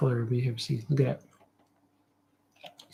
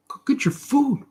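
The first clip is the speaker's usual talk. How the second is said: high calling voice, like feeding llamas; hollering at the creatures to come eat; Napoleon Dynamite impression; 11 semitones higher than usual. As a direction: call the animals to dinner in a raised voice. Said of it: "Napoleon Dynamite when he's feeding those llamas".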